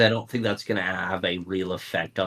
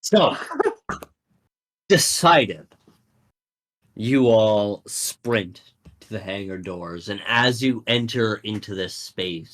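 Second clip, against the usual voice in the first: announcer voice. Acted. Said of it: "do the Clone Wars announcer voice".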